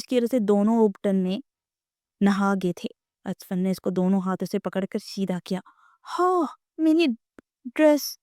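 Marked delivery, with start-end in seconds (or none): 6.2-8.2 high, near-tearful wail over the dress; a girl on the verge of tears; pitched up, close to crying. A narrator's reading. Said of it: "روحان سی آواز میں".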